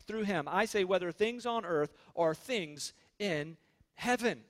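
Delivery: emphatic, measured pulpit reading; scripture reading. Real, not acted. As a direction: proclaim the passage to a congregation. Reads scripture aloud to congregation.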